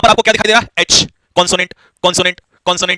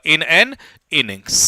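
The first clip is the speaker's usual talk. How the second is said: slow model answer; 3 semitones lower, much slower than usual. Shown as a demonstration. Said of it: "तो answer इसका क्या हो जाएगा".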